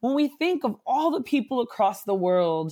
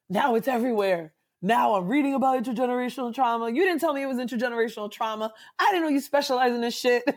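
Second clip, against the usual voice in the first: higher, fast, half-laughing mock complaint; exasperated client; 4 semitones higher, faster than usual. Client complaining to the therapist, quick and high, laughing. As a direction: rattle it off like an amused, accusing client. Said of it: "They're like".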